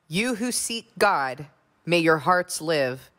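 measured, solemn psalm reading; scripture reading. Acted. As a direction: read it like a prayer before the congregation. Reads the psalm's close.

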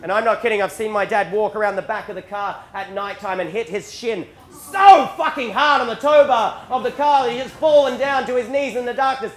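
ordinary delivery

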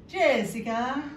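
mother-in-law's name-call in a mock Italian accent; botched Catalan accent, Italian-sounding. Mother-in-law addressing her, attempted Catalan turning Italian. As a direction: say it with an accidental Italian lilt, rising. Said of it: "apparently she's Italian".

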